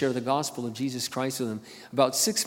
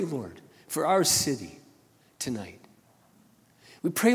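earnest pastor's prayer; closing prayer; 3 semitones higher than usual. Real, not acted. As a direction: pray over the congregation.

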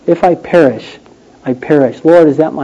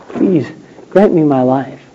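soft quiet plea for life; dignified plea; 4 semitones lower, 6 dB quieter than usual. Pretend. Esther pleading to the king, quiet and dignified. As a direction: beg with restraint. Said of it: "in a very dignified way".

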